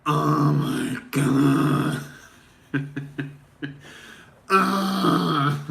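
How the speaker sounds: drawn-out oh my God collapsing into a laugh; real laughter. Real, not acted. Breaking from his parody, laughing for real. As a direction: crack up at his own bit.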